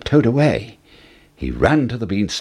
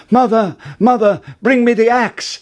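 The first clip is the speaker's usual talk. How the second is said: much higher, louder urgent call; 11 semitones higher, 4 dB louder than usual. A narrator's reading. Jack calling his mother for the axe, urgent shout. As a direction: shout down to her from the beanstalk. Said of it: "called out".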